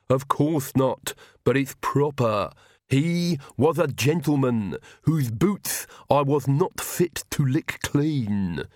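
slow, reverent servant's voice; Igor's voice. A narrator's reading. Igor explains his devotion to Nanny, slow servant voice. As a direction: speak slowly, proud of service.

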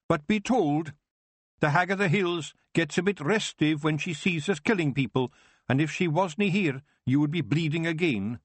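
a wee warrior growling threats at the elf; Rob Anybody. Acted.

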